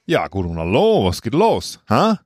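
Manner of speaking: put-on American accent in German, slow; American accent that comes out Dutch. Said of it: "Das sollte eigentlich ein amerikanischer Akzent sein".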